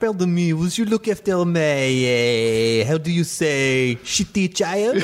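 lightly voiced Australian mother; a hint of an Australian mum asking a favour; Australian accent. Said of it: "you can do the Australian accent".

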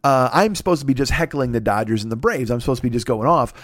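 ordinary delivery

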